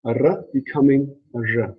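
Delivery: first R plain, second R buzzing like "zh"; R turning fricative. Shown as a demonstration. Teacher showing what you'll hear, second R buzzed like "zh". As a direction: contrast a clean R with a "zh"-like R. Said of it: "you'll hear".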